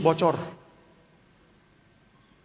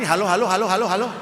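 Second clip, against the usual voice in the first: mic check; 3 semitones higher, faster than usual. Real, not acted. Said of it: "Ini nggak ada suara ini".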